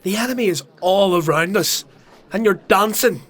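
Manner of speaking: furious rant. Acted. Sodrin denouncing the crowd from above, furious loud rant. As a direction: rail at them like a doomed prophet.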